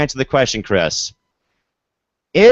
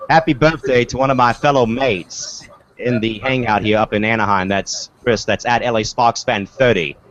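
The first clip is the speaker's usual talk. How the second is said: light attempt at an Aussie accent; half-successful Aussie accent, near own voice; Aussie impersonation; 3 semitones lower than usual. Host relaying birthday wish to a fellow mate, rough Aussie accent. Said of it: "I can't do an Aussie accent".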